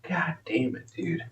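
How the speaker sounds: under the breath, unvoiced god damn it; whispered curse. Real, not acted. Streamer annoyed at his suspended stream, whispered curse. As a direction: hiss the curse to yourself in frustration.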